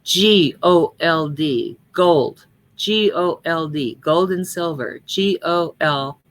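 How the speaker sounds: slow spelled letters, "G" and "gold" stressed; emphasis on G. A narrator's reading. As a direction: spell it slowly, punching "G". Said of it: "with emphasis on the G".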